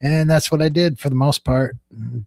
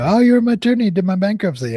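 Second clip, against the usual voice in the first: higher, louder imitation of a delighted client; excited client greeting; 7 semitones higher, 7 dB louder, faster than usual. Former client spots attorney at the store, excited. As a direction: act out someone thrilled to recognize you.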